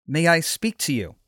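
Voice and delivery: mildly courteous, composed request; calm and polite. Acted. Paul asking the Roman captain for a word, calm and polite. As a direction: ask politely, without any agitation. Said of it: "Paul spoke calmly and politely".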